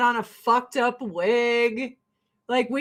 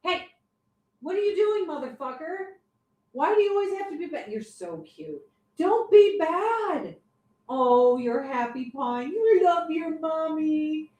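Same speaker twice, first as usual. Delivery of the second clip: scolding the cat; 6 semitones higher than usual. Real, not acted. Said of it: "I gotta yell at this cat".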